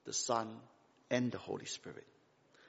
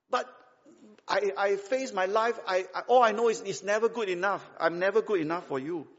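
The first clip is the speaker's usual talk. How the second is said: self-doubting protest; 5 semitones higher than usual. Acted. Acted complaint of unworthy child to God.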